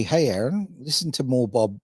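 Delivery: bad Jamaican accent, high and loud on the lyric. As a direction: put on a weak Jamaican accent. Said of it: "that was the worst Jamaican accent ever".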